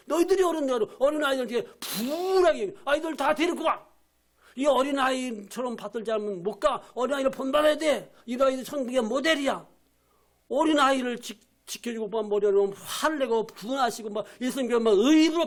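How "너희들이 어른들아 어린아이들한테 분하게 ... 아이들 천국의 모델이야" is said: angry scolding. Acted. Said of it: "막 화내고 분개하셔서".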